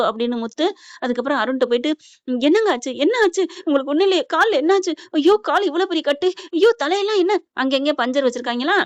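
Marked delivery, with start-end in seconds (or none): 2.3-7.4 higher-pitched, fussing questions; alarmed wife. Retold or imitated. Wife finds her husband bandaged in hospital, acted alarm. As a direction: fret over him in mounting alarm.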